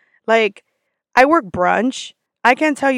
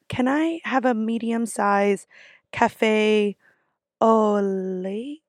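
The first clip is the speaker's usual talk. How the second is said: slow, hesitant order ending on a questioning rise; second-guess your way through "au lait"; unsure; 4 dB quieter, much slower than usual. Acted. Customer ordering from the barista, unsure and hesitant. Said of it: "I'm not confident in how I'm saying".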